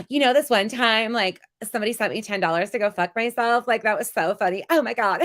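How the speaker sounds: mock her giddy money chatter; impression of Molly. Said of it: "Do I have that down pat?".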